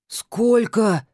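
«Сколько?» выше и громче, в шоке; выкрикнуть «Сколько?» от изумления; ошарашенно. Acted. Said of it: "вытаращился он". (ошарашенный выкрик «Сколько?»)

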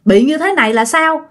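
acted mother's shocked question; startled alarm. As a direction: ask in mild alarm what happened. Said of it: "bà Sang mới hết hồn".

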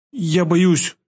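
put-on high, scared girl's voice; timid fear. A narrator's reading. Girl asked to help with a corpse, timid. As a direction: shrink from it in a high voice. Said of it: "стушевалась она".

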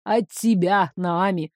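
ниже, ехидно с нажимом на «только»; ехидно поправить её. Acted. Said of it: "ехидно поправил граф". (граф ехидно поправляет Наами)

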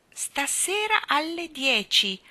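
high, slow read-out; reading aloud. A narrator's reading. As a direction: read the inscription out slowly. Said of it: "leggendo l'iscrizione ad alta voce". (lettura ad alta voce, lenta)

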